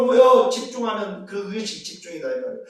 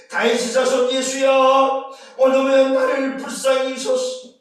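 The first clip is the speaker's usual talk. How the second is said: beggar's cry; 3 semitones higher, 5 dB louder than usual. Acted. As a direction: cry out for mercy with full voice. (자비를 구하며 크게 외치는 소리)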